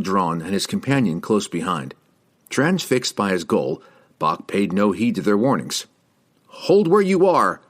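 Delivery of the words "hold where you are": loud, slow, high command to halt; commanding shout. A narrator's reading. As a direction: bark the order to stop. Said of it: "the soldier commanded".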